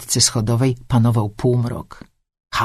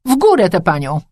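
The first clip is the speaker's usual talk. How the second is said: hearty command; 4 semitones higher, 4 dB louder than usual. A narrator's reading. Man orders others to lift her.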